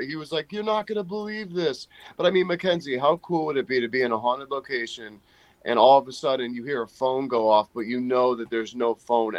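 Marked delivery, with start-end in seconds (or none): 0.5-3.7 imitating an excited caller, pitched high; freaking out. Friend retelling an excited phone call about the ghost, freaking out. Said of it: "he called me freaking out".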